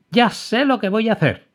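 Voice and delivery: high, bright burst of discovery; excited exclamation. A narrator's reading. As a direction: blurt out the idea with joy. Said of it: "exclamó Emma".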